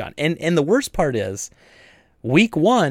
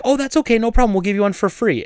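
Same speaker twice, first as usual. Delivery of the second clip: bright high customer-service voice, pitched way up; sugary shop voice, well above normal; high chirpy retail voice offering a free mask; overly cheery; 8 semitones higher than usual. Retold or imitated. Cheery greeting to anti-mask customer.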